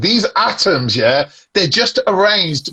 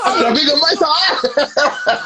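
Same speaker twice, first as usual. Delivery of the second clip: high, slow, drawn-out creepy recitation; perverted uncle; 7 semitones higher, slower than usual. Shown as a demonstration. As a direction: stretch it out high, like a lecherous uncle. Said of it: "so much like a perverted uncle".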